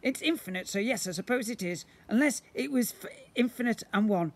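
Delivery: booming slime creature. Acted. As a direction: play the magical blob, grand and eager. Slime character voice.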